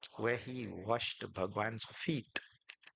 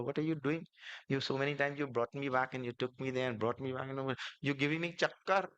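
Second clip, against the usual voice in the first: Lord's mock complaint; 3 semitones higher than usual. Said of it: "And Bhagwan Ram said".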